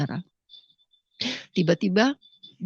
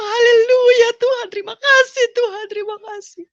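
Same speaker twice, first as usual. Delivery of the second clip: joyful sobbing; 12 semitones higher, 4 dB louder than usual. Retold or imitated. Reliving her thanks to God in church, sobbing with joy. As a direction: sob out the praise through happy tears. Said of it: "Aku menangis sukacita".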